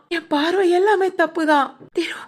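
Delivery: tearful whisper. Acted. Brother admits fault, breaking down.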